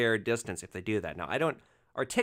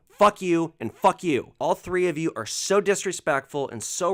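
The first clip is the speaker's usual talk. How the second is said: loud, swearing blow-up; furious ejection; 3 semitones higher, 6 dB louder than usual. Retold or imitated. Driver throwing rude passengers out, furious shouting. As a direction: kick them out of the car at full volume.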